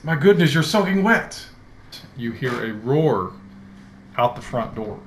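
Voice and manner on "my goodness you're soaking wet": high, loud fretting butler; fussing old servant. Acted. Elderly dragonborn frets over the soaked young master. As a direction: cluck over him like a worried retainer. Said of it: "he looks at you and he says".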